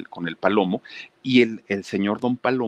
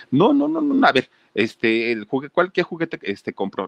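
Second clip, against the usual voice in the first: very high and louder no no no; angry mother; 7 semitones higher, 3 dB louder than usual. Retold or imitated. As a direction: insist the gift goes back. Mother refuses again.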